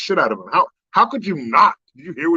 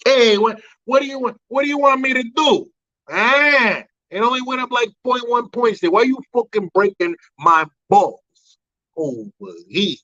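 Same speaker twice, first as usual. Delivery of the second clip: high, put-on irritated old-man voice; mock cranky politician; 6 semitones higher than usual. Comedian mocking the president complaining about questions, in a high cranky voice. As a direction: grumble like a cornered leader.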